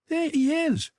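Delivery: high, loud sudden cry of recognition; excited cry. Acted. Girl spotting her beloved in the park, crying out excitedly. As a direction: Sybil calls out, thrilled to spot him. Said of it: "she cried".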